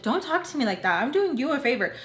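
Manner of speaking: mock offended telling-off; indignant retort. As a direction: push back as if insulted. Acted quarrel over getting a pill.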